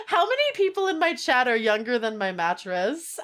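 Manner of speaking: high, breathless laughing; laughing hard. Real, not acted. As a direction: crack up mid-sentence. Laughing at mattress age.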